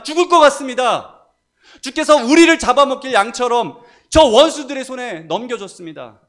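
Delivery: anguished psalm shouted high and loud; crying out to God. Acted. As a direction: plead and accuse at full preaching force. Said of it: "하나님께 직접적으로 부르짖는 기도들". (하나님께 격렬하게 부르짖는 기도)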